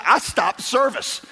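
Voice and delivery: mock-panicked shouting of a startled newcomer; retold panicked yelling. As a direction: play the new Christian yelling in alarm, half-mocking. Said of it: "I start screaming".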